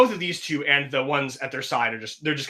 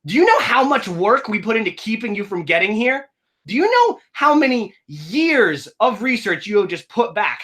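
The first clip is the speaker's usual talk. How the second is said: heated argument; 4 semitones higher, slower than usual. Acted. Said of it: "they're kind of arguing now".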